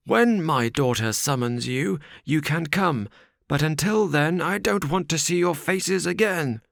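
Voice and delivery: put-on stern old father. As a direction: send them off, barely holding back.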